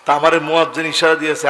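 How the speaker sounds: normal talking voice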